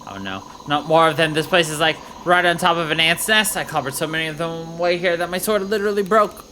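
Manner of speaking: lightly voiced bubbly valley girl; a hint of a chirpy valley girl. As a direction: play the hyped valley girl soldier, like, totally. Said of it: "uh, valet voice".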